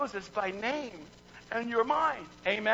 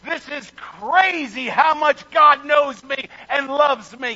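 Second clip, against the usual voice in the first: louder, higher and slow; amazed, stretched-out exclamation; awestruck; 6 semitones higher, 10 dB louder, slower than usual. Retold or imitated. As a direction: marvel out loud in disbelief. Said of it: "We would say".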